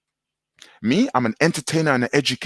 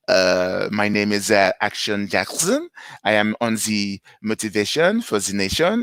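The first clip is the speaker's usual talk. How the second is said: French accent. Shown as a demonstration. Entertainer showing off a newly learned accent, French accent. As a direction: try out a French accent, feeling for the words. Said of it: "I'm learning the accents".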